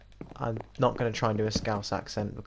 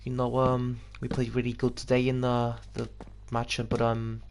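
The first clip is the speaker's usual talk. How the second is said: halting Scouse accent attempt; Steven Gerrard. Footballer talking about today's match, attempted Scouse accent. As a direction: struggle through a Liverpool footballer's accent. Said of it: "I always think Steven Gerrard".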